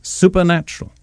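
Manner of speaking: "supernatural" lifted high and set apart; emphasized word. Shown as a demonstration. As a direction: lift "supernatural" up and hold it out alone. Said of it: "I want to emphasize that word".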